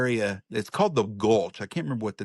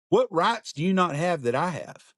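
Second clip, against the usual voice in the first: higher-pitched demanding question; confrontational challenge; 6 semitones higher than usual. Retold or imitated. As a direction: press him hard, retold. Confronting petitioner on the street.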